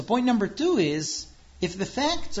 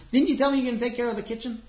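higher, louder, fast accusing wife; livid wife; 7 semitones higher, 4 dB louder, faster than usual. Acted. Wife livid at husband about the kitchen. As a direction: demand an answer, indignant. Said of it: "she's livid".

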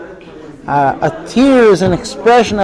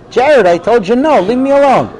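higher, impatient dad brushing his son off; irritated father; 5 semitones higher than usual. Acted. Father refusing his son the car, impatient and a bit higher. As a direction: snap a firm no at a pestering kid.

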